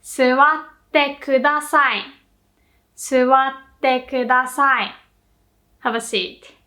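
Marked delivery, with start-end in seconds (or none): 0.0-2.0 slow, clear Suwatte kudasai, every syllable even; slow model phrase. Shown as a demonstration. Teacher modelling the phrase slowly for students. 3.0-4.9 slow repeat of Suwatte kudasai, falling at the end; slow model repeat. Shown as a demonstration. Teacher repeating the phrase slowly for students.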